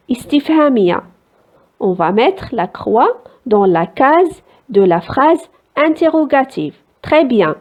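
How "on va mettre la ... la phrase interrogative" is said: very slow, clear instruction to pupils; teacher guiding pupils through the answer. Shown as a demonstration. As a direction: spell out where the cross goes. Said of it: "teacher marking the box".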